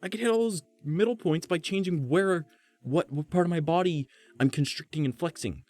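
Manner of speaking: very high, excited ramble; squeaky-high, fast-flowing excitement; high head voice. Shown as a demonstration. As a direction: keep the voice way up high. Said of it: "I could just hit higher notes".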